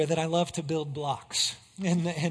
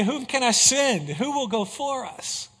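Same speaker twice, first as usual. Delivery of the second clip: raised-voice appeal, easing at the end; crying out; 4 semitones higher than usual. Acted. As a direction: call out for a volunteer. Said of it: "for him to cry out and say".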